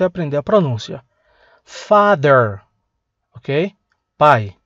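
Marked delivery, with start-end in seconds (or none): none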